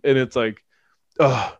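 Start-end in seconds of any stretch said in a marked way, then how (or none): 1.2-1.5 high, slow, drawn-out plea; hammy melodrama. Retold or imitated. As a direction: overact a tearful plea. Mocking melodramatic line.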